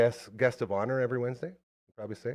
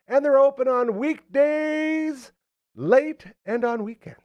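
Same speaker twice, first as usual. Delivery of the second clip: drawn-out ad voice; 13 semitones higher, 5 dB louder, slower than usual. Acted. Radio ad read, drawn out.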